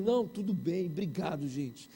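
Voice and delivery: low, soft shy reply, fading away; meekly shrinking into a low mumble; timid. Retold or imitated. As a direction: imitate a shy, defeated thank-you. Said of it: "como era muito tímido".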